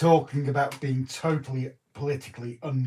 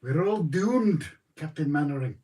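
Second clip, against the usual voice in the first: put-on Scottish accent; 3 semitones higher, 5 dB louder than usual. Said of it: "I can't do the accent".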